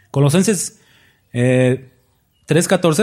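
breathy aside under the breath; murmured reference; whispered. Real, not acted. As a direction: whisper the book name.

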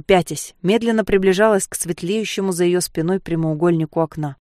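ordinary delivery

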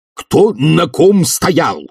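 high, drawn-out challenge; exasperated cry. A narrator's reading. Professor cannot follow the muddled wording, cries out slowly. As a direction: call out slowly, demanding sense. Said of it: "крикнул Филипп Филиппович".

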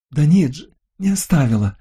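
high, sharp irritated cry; irritated shout. A narrator's reading. Lucille snaps at the narrator about the beach, irritated cry. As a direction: snap it back in annoyance. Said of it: "раздражённо крикнула она".

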